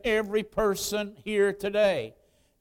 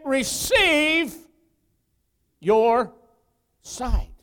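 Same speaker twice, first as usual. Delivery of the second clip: loud, high, slow preacher's declaration; commanding proclamation; 4 semitones higher, 5 dB louder, slower than usual. Acted. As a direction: proclaim the healing, each word set apart. Preacher proclaims Jesus's healing command.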